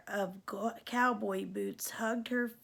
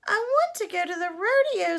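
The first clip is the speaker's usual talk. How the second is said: higher, louder tearful plea; Cindy begging the godmother, higher and louder with mock sobs; sobbing plea; 9 semitones higher, 7 dB louder, faster than usual. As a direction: plead through mock sobs. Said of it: "sobbed Cindy Ellen".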